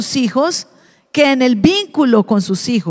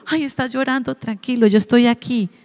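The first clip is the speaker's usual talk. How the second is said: comforting parent. Shown as a demonstration. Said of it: "caja de los primeros auxilios".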